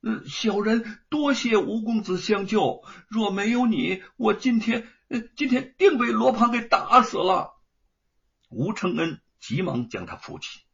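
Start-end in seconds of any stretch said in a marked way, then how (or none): 0.0-7.5 grateful thanks. A narrator's reading. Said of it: "跪拜不止".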